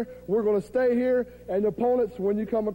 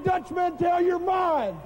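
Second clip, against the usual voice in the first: shouted callout; 4 semitones higher, slower than usual. Acted. Wrestler calls out rival.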